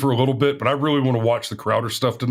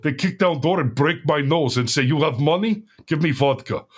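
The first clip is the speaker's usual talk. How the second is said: imitated Russian soldier, dropping articles; deadpan Russian accent. Russian soldier recounting a raid to his buddies, deadpan Russian accent. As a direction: retell it straight-faced in a Russian accent. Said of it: "deadpan, serious, s-, completely serious face".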